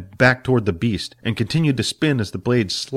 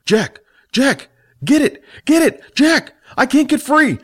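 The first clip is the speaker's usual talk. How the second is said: desperate high-pitched yelling; struggling against restraints; 5 dB louder than usual. Acted. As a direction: scream for help while trapped and straining. Billy trapped, screaming for help.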